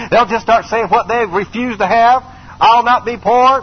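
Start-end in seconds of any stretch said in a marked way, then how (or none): 2.6-3.6 defiant vow. Retold or imitated. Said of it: "Gone with the Wind famous statement".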